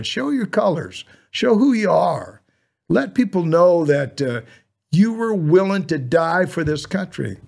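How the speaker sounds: rousing appeal. Real, not acted. Urging veterans to show pride.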